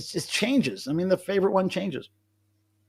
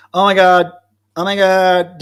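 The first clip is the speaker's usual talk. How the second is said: excited exclamation; 4 semitones higher, 9 dB louder, slower than usual. Real, not acted. Exclaims that Deadwax is drinking.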